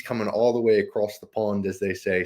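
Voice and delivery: badly faked British accent; horrible British accent. Podcast host introducing his co-host from overseas, bad mock British accent. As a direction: put on a clumsy, half-hearted British accent. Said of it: "that was a horrible British accent".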